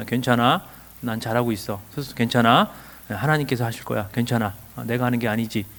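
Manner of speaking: low, softened, comforting tone; soothing self-reassurance. Shown as a demonstration. Coach modelling words to say to oneself, soothing. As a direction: reassure gently, keeping the pitch down.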